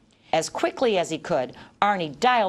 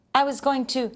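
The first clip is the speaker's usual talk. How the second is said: shocked; 7 semitones higher than usual. A narrator's reading. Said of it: "he replied in shock".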